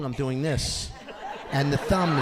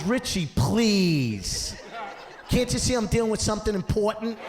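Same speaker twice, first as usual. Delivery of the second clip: doctor voice; 8 semitones higher than usual. Retold or imitated. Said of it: "He goes".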